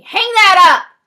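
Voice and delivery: high, full-volume command; yelled order. A narrator's reading. Frosty yells at the boy on the phone, high urgent shout. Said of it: "Frosty yells at me".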